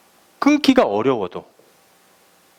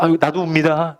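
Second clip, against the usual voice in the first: fake crying; 4 semitones higher than usual. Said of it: "우는 척".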